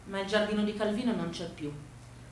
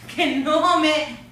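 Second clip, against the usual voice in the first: surprised; 9 semitones higher, 11 dB louder than usual. Acted. Girl hears odd name.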